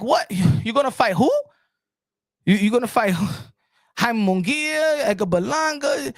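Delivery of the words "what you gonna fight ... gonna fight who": incredulous. Real, not acted. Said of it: "I'm looking at it like".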